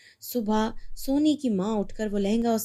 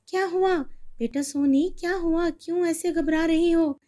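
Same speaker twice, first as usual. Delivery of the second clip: higher, anxious mother voice; rushing in alarmed; mother hearing her daughter scream, anxious; worried mother; 7 semitones higher than usual. Acted.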